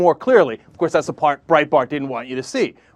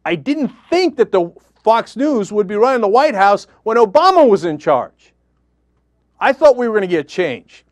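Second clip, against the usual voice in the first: angry; 5 semitones higher, 4 dB louder than usual. Real, not acted. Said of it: "Can you tell how angry I am today?".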